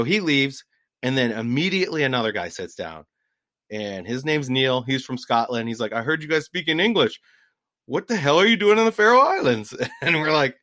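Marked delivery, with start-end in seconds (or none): 5.9-9.7 higher, louder mock Scotsman; high-pitched, excitable imitation. Scot surprised by tourists in Faroe, high excitable imitation. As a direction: raise the pitch like an excitable fisherman. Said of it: "his voice was a bit high pitched".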